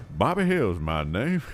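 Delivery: a hint of Bobby Hill introducing himself; proud mock kid voice; Bobby Hill impression. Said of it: "here's a good Bobby Hill impression".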